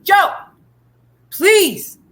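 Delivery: high, loud acted scream. Trapped man to his buddy Joe, screaming up. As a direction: holler up for rescue, pleading. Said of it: "He screams up".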